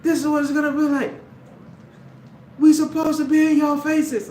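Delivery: high, loud taunting nerd voice; mocking a nerd. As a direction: play the smug nerd, high and pushy. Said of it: "and then that nerd say".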